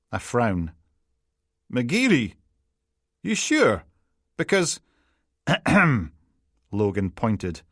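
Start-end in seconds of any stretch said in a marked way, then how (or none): 1.7-5.7 doubtful. A narrator's reading. McLaughlin doubtful, interrupted.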